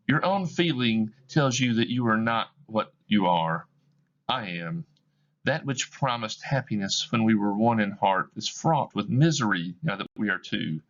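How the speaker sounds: letting him go with sorrow; sorrowful woman. Acted. Woman releases Scrooge.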